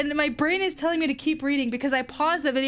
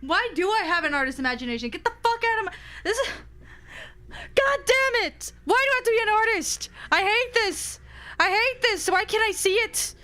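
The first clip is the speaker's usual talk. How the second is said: frustrated; 6 semitones higher than usual. Real, not acted. Frustrated outburst.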